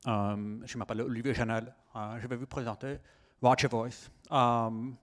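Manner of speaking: French with an American accent; American accent on every French word. Real, not acted. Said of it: "j'ai un accent américain".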